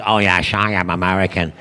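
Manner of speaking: very low Scottish slur, shushed s; mock film-star Scottish burr, deadpan; Sean Connery. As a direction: claim to be American in unchanged Scottish. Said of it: "he's played Americans".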